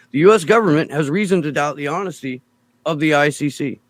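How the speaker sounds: fast, mocking reread. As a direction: sneer through the quote. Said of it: "can't think of a more cartoonish sentence".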